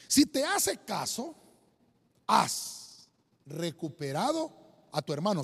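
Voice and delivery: preacher's emphatic reading with long pauses; solemn scripture reading. Acted. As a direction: proclaim the verse phrase by phrase. Reads Bible verse aloud.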